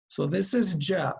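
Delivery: "Ja" spoken bright, lips spread in a smile; smiling Ja. Shown as a demonstration. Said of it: "I'm smiling when I say Ja".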